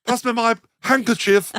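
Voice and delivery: posh lady at the zoo. Pretend. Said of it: "God, you have never sounded sexier".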